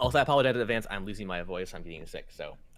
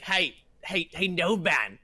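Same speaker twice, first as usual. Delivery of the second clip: higher, jeering call; mock greeting; 8 semitones higher, 8 dB louder than usual. Captain shows how rude being called by species is, higher mocking voice. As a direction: mimic a rude greeting, pitched up. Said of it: "I'm not like".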